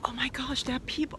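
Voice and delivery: very soft, low, whispery aside; hushed disbelief. Real, not acted. Owner noticing strangers calling their parrot, hushed disbelief.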